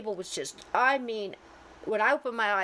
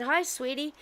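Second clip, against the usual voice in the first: put-on higher-pitched hello to a child; sweet greeting; 6 semitones higher than usual. Medium greeting a little girl's spirit, sweetly. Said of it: "I'm talking to her".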